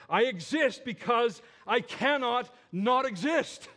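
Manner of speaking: thundering I am; proclaiming God's name. Acted. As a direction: declare it as the voice of God. Preacher voices God's self-naming, building.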